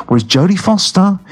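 light cockney lilt on mate; a touch of cockney. Real, not acted. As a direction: slip into a hint of cockney. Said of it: "I'm sounding like a cockney again".

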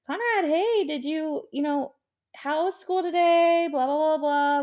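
high, bright-eyed mom asking her son about his day; sweet mom voice. Retold or imitated. Mom picking up her son, cheery high voice. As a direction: sing it up like a cheery mom at pickup.

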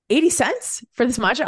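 high, loud incredulous question; amazed delight. Retold or imitated. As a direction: exclaim it in happy disbelief. Amazed at the cheap price.

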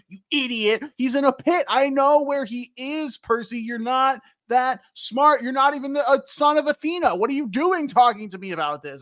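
a touch of exasperated god; hammed-up impatient put-down; mock scolding. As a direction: berate him, lightly acted. Acts Zeus berating Percy.

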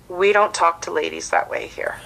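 measured, understated firmness; very calm. Retold or imitated. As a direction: imitate a calm, controlled warning. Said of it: "just very calmly says".

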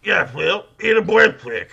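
high, loud goofy pleading; hammed-up high John C. Reilly. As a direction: whine it like a comic actor. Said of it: "Do the fucking John C. Reilly".

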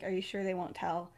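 soft, private checking; low-key, hushed request for reassurance; hushed question. Retold or imitated. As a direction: ask it quietly, just between two people. Acted hushed intimate question.

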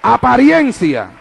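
slow, weighty single word; apariencia, slow and deliberate; drawn-out keyword. Acted. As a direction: land the word like a title. One-word sermon keyword.

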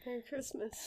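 soft unvoiced whisper. Real, not acted. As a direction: whisper it playfully. Joking about gifts.

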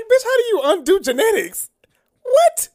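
high, loud disbelief; incredulous. Real, not acted. Friend mocking the plot, high incredulous rant. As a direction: throw it up in utter disbelief.

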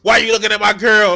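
quick hammed-up jealous snap; mock jealous challenge. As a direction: fire it off fast like a jealous tough guy. Mocking the preacher's threat.

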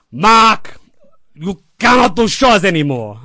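dying mentor's solemn last words; deathbed advice. Retold or imitated. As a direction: look him dead in the eye and warn.

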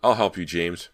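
loud, urgent promise of help; shouting. Acted. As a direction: shout it through a wall to a child. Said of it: "Brant shouted".

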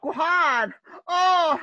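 high cartoonish native call; exaggerated cartoon intonation. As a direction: shout it up high like a cartoon islander. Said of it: "Why are you talking like".

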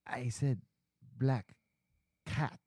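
put-on halting Asian-accented apology. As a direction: correct them in an Asian accent, pausing between words. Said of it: "I'm doing an Asian accent".

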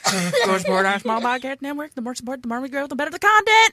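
put-on Boston accent sliding into British; Boston accent, came out British. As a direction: try Boston, slip British. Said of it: "supposed to be Boston accent".

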